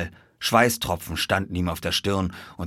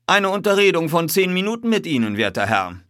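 high, sweetly courteous request; be disarmingly pleasant to a bully; polite and airy, dropping at the end; friendliest tone; 10 semitones higher, 6 dB louder than usual. A narrator's reading. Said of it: "in seinem freundlichsten Ton".

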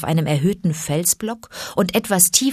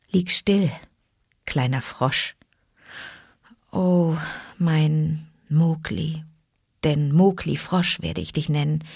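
tender. Acted. Mother Wolf tenderly naming her cub Mowgli.

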